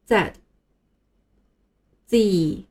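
"Z" as zed then zee; both "Z" forms in turn for learners; British then American Z. Shown as a demonstration. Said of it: "再和我一起把这两种正确的读音发一次".

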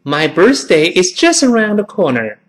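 careful repeat-after-me English reading; model sentence. Shown as a demonstration. Teacher gives class a sentence to imitate, clear model reading. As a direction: read it connected, 'around the corner' run together. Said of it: "再来一遍".

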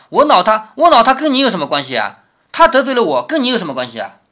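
a reader voicing Daiyu's hurt anger; indignant scolding. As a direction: push him away with each question. Daiyu scolding Baoyu, voiced.

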